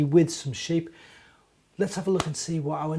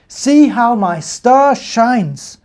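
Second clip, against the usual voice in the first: slow, proud and louder; proudly; 7 semitones higher, 12 dB louder, much slower than usual. Acted. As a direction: show it off proudly. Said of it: "pointed proudly".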